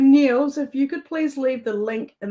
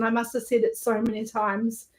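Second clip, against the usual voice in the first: normal talking voice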